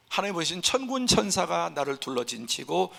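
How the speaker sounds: normal talking voice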